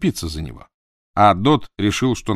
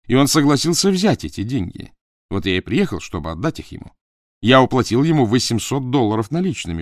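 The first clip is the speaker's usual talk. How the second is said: raised, accusing merchant voice; indignant businessman; 3 semitones higher, 4 dB louder than usual. Acted. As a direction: expose him, loud and indignant. Crawford accuses the old man.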